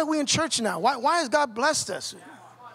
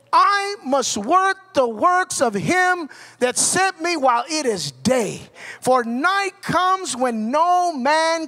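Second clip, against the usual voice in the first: urgent; 4 dB louder than usual. Retold or imitated. Jesus telling of his mission while it is day, urgent. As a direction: declare it forcefully, stretching the opening. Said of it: "you hear the urgency".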